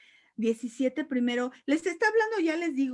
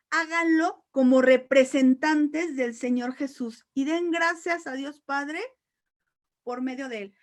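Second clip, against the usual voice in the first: slow, weighty reading of the verse; emphatic verse reading; 3 semitones higher, 6 dB louder than usual. Acted. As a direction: lean on each phrase.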